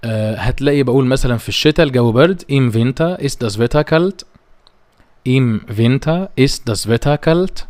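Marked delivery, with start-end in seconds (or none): 2.4-7.6 am nächsten Sonntag said very slowly and carefully; slow German demo. Shown as a demonstration. Teacher models German sentence two for students, very slowly. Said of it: "الجملة رقم تمانية".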